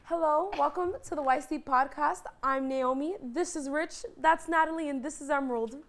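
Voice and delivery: upbeat host intro voice; podcast host intro. Pretend. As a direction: announce it like a show host. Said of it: "if you were gonna do this, how would you do this?".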